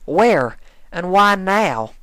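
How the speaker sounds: Applejack, commanding. A narrator's reading. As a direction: farm mare blocking her way. Applejack demands.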